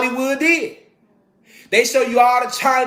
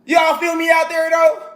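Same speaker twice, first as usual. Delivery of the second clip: calling out; 5 semitones higher than usual. Real, not acted. Calling out to audience.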